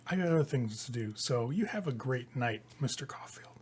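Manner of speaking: fading to a whispered sign-off; sinister farewell. Acted. Vanathra signing off.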